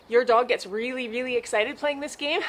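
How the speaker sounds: winded from running with the dog; out of breath. Real, not acted. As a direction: speak while catching your breath. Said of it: "See, I'm winded".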